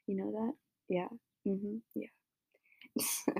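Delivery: unvoiced breathy whisper to the ghost. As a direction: barely whisper a secret yeah. Talking to the secret ghost.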